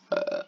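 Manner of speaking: real burp mid-sentence. Real, not acted. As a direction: let out a small burp. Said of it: "there's our first burp".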